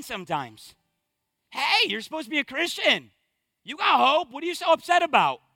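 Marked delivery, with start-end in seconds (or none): 1.5-5.4 scolding. Acted. Voices mean Christians scolding mourners.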